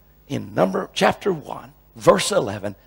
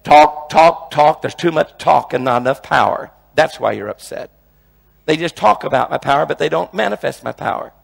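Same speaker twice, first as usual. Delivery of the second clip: voice of God; 6 dB louder than usual. Retold or imitated. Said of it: "it just came in my head".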